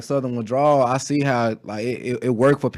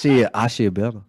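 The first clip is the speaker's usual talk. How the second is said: cocky boast; 4 semitones lower than usual. Retold or imitated. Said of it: "I'm quick to be like".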